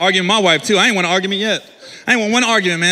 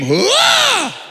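high mock scream of the wife; a sudden high shriek; wife's high scream from upstairs; retold scream; 11 semitones higher than usual. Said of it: "I heard a scream".

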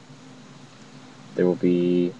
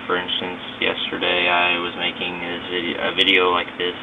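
recorded through a phone mic, scratchy and garbled; speaking through a phone app mic, a little staticky; cheap phone mic. Real, not acted. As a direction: talk into a cheap phone microphone. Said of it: "Kinda scratchy".

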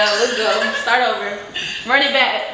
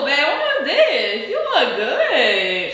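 laughing; 3 semitones higher, much slower than usual. Real, not acted. Laughing at old photo.

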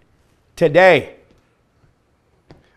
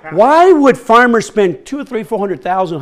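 ordinary talk, nothing marked

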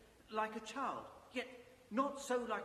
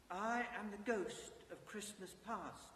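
calm ghost voice. Acted. Ghost speaks to Scrooge.

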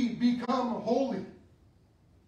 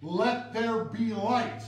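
slow, echoing divine command; commanding voice of God; slower than usual. Acted. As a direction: speak it into being like God. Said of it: "he spoke it into existence".

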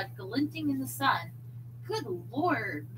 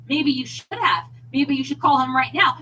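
loud, fast jealous shout; angry shout; 4 semitones higher, 11 dB louder than usual. A narrator's reading. Husband shouting at wife mid-quarrel, angry and fast. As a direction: hurl it back at her.

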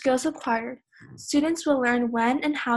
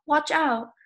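raised, urgent warning; emotional yell; 4 semitones higher, 4 dB louder than usual. Shown as a demonstration. Teacher showing how you would alert a person, emotional yell. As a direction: call it out sharply to alert a person. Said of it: "you'd say".

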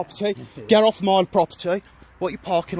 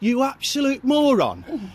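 contemptuous insult; 6 semitones higher, slower than usual. Real, not acted. Heated doorstep row with bailiff.

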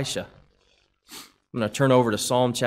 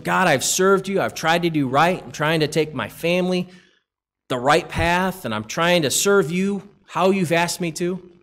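weary believer's plea; 4 semitones higher, 4 dB louder than usual. Acted. Believer complaining to God.

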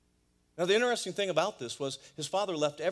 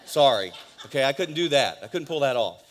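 laughing; 10 dB louder than usual. Real, not acted. Laughs at own joke to graduates.

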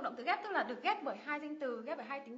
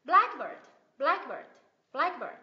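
"Blackbird" as BLACK-bird, BLACK loud; loud drill of "blackbird", weight on BLACK; stress on first part; 2 semitones higher, 9 dB louder, slower than usual. Shown as a demonstration. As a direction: hit BLACK forcefully, let "bird" drop. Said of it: "nhấn vào thành phần thứ nhất".

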